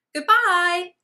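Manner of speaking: high, loud goodbye call. Acted. Little girl calling goodbye to Gumboot, high loud call. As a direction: call it after him from afar. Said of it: "called the little girl".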